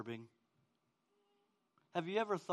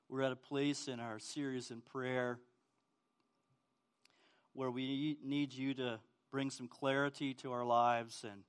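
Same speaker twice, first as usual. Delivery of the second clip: prayer; 2 semitones lower, 3 dB quieter than usual. Acted. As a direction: pray quietly over the congregation. Pastor prays before sermon.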